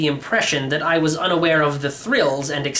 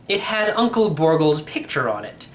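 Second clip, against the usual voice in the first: ordinary delivery, nothing marked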